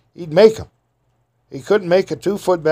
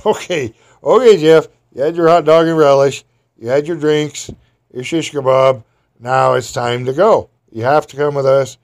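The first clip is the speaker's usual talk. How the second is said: raised, firm sheriff voice telling Jeff time's up; a lawman losing patience, louder; sheriff ordering; 2 semitones higher, 5 dB louder than usual. Retold or imitated. Sheriff telling barefoot Jeff he must come along, raised firm voice.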